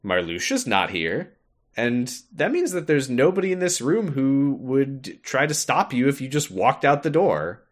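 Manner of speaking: a hint of a scheming villain; Axel voice. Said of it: "And Axel's like".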